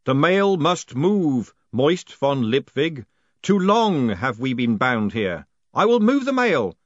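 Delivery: slow, loud, booming spirit voice; ghostly voice. Acted. The haunted post office pronounces Moist postmaster, slow and booming. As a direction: intone it like the building itself speaks.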